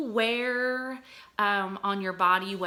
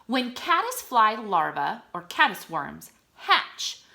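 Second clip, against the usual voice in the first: clear, lively informational reading; reading aloud to children. Acted. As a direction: read it with interest. Reads facts to children.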